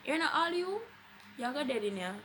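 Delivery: lightly voiced rude hospital lady; mimicking the lady. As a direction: throw her words back like she said them. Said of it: "tell me that I was going dead".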